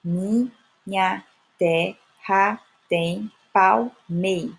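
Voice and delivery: very slow, gaps between syllables, stopping at palmei; measured scansion that drops the last syllable of palmeiras; syllable by syllable, cut short. Shown as a demonstration. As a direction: count out each syllable up to the stressed MEI. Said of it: "eu só contabilizo até aí".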